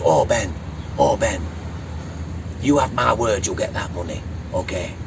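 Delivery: lightly voiced Yorkshire woman; a hint of a reassuring Yorkshire woman. Employer promising her skipper his money, lightly voiced Yorkshire woman. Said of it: "The woman talks like this".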